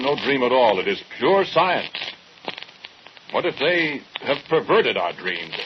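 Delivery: a guilty man arguing himself into panic; rising anguish. Acted. Scientist's anguished self-defence.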